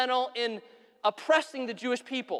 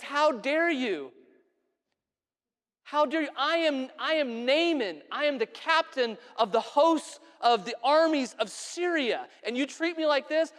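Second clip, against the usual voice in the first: indignant, pitched-up proud commander; puffed-up general taking offense; angry outrage; 5 semitones higher than usual. Acted. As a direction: draw out the affront, voice raised high. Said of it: "he gets angry. He gets upset".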